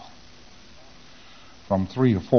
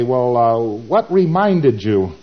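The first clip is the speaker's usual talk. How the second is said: louder, drawn-out prompting question; questioning auditor; 5 dB louder, much slower than usual. Acted. Auditor prompts the client to recall, slow and projected. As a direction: act the auditor, stretching out the question. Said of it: "And you say".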